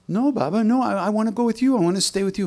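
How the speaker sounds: high pleading cry of a devoted baba; pleading sadhu. Retold or imitated. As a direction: beg him not to leave you behind. Baba begs to come along.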